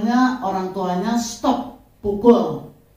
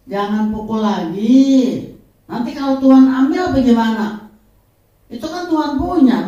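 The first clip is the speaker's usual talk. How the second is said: forceful rebuke; 3 semitones higher, 7 dB louder than usual. Real, not acted. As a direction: preach it hard at the mother. Preacher rebuking mother loudly. (pengkhotbah menegur ibu dengan keras)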